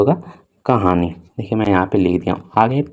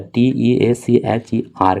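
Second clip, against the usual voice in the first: slow spelling; slower than usual. Shown as a demonstration. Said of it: "उसके बाद है टीचर".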